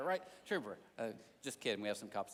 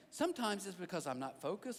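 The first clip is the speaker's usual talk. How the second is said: usual speaking voice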